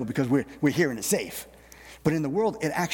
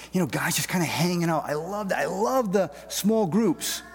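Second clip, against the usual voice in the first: enthusiastic; 4 semitones higher than usual. Real, not acted. Enthusing about church fellowship.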